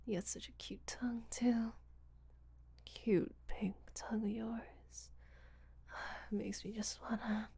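soft breathy whisper, close to the mic; intimate whisper. Acted. Seductive whispered roleplay.

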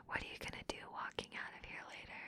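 quick, very soft whisper; taunting whisper. Acted. Dominant teasing embarrassed partner, quick whisper. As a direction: whisper the question in a rush.

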